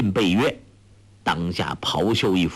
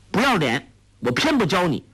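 put-on higher, sharp girlish retort; lightly voiced indignant girl; 8 semitones higher, faster than usual. A narrator's reading. Young girl retorting to Ouyang Feng, lightly voiced, higher and defiant. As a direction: tease him back with a raised, defiant voice. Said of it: "黄蓉叫道".

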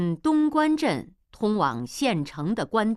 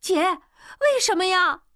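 put-on much higher, louder girlish voice; young girl's puzzled question; 12 semitones higher, 7 dB louder than usual. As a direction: ask your sister, bewildered. Young woman asks sister.

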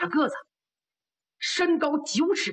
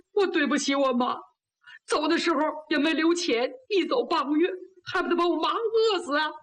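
higher, plaintive self-reproach; acted guilt-stricken wail; tearful remorse; 4 semitones higher than usual. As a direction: lament as if near tears. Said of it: "别哭".

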